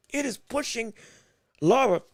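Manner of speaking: talking through hiccups; words broken by hiccups. Real, not acted. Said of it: "I got the hiccups".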